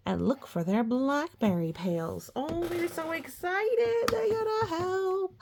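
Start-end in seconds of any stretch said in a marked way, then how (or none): 2.3-5.4 high, excited bunny voice; excited little rabbits. Pretend. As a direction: squeak it like the eager rabbits.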